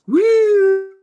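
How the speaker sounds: sudden high yelp of surprise; loud startled woo. Retold or imitated. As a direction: yelp like you just got caught. Surprised cry crossing the road.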